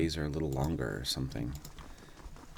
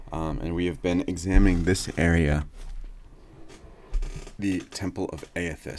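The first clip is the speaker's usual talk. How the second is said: chair creaking; 6 dB louder than usual. Real, not acted. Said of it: "Sorry about my chair noises".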